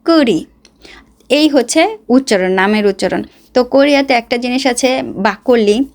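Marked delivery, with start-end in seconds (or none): 0.0-0.5 কুড়ি with r, slightly higher; Korean mispronunciation. Retold or imitated. Vlogger imitating Koreans saying কুড়ি. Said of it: "কিন্তু ওরা বলবে".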